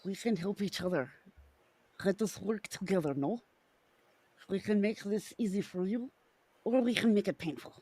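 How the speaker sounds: put-on Russian accent. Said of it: "Russian works, by the way".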